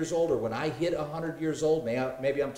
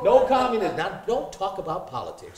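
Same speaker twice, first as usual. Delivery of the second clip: much higher and louder, laughing through it; 8 semitones higher, 11 dB louder than usual. Real, not acted. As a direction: laugh out the joke to the group. Joking about communism, laughing.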